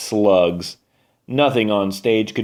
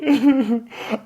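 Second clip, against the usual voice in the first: sobbing laugh; 13 semitones higher than usual. Acted. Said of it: "Madge petted her taco and sobbed".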